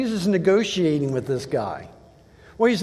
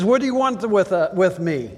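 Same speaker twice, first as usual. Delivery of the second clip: preached shout of the demoniac; shouted quote; 2 semitones higher, 4 dB louder than usual. Retold or imitated. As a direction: call it out like a desperate demon. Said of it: "he shouted at the top of his voice".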